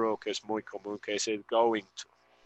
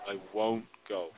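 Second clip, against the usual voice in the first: soft repeat; 3 semitones lower, 8 dB quieter than usual. Shown as a demonstration. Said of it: "escuchar la pronunciación".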